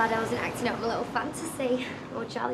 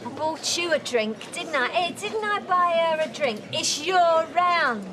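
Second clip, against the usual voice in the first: loud, high tipsy complaint; drunken demand; 6 semitones higher, 5 dB louder than usual. Acted. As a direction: slur it loudly, stretching the last words. Drunk woman demands her drink.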